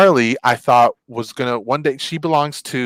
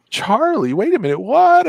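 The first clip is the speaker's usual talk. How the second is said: much higher startled disbelief; man realizing his friend's dog died; shocked realization; 11 semitones higher than usual. Retold or imitated. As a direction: it just hit you. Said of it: "I was like".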